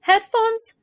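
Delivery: put-on a touch of a kid's angry protest; boy snapping back at Mom about the headband. A narrator's reading. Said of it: "I said angrily".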